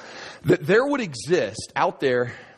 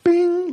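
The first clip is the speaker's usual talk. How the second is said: light bulb bing; 5 dB louder than usual. Retold or imitated. Idea hits him.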